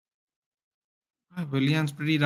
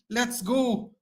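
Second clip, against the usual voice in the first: much higher, joyful let's go; excited cheer; 9 semitones higher than usual. Real, not acted. Fan cheering the first goal, high joyful cry.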